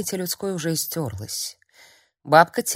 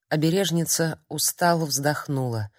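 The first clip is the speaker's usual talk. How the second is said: plain reading voice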